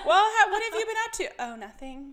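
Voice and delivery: high giggly question; laughing while asking; laughing small talk. Retold or imitated. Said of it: "'cause I'd be like".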